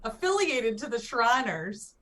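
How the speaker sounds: put-on lightly Southern country accent; easy rural country accent. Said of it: "Give us your answer with a country accent".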